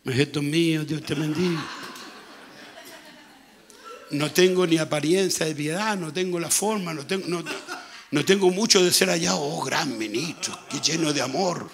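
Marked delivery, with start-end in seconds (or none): 0.0-1.6 gentle, loving. Acted. Preacher imitating a loving minister blessing his child, mildly gentle. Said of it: "ser suavecito, amoroso". 9.4-11.7 mock admiration. Mimics admirers of a great minister.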